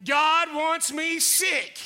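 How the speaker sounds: "God wants me sick" said very slowly, each word drawn out; slow mocking lie. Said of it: "Anybody believe that lie?".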